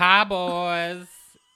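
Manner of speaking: put-on very loud twang, "hello, boys" stretched out. Retelling greeting some boys at a bar, she says it in a twangy voice. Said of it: "say it in a twang".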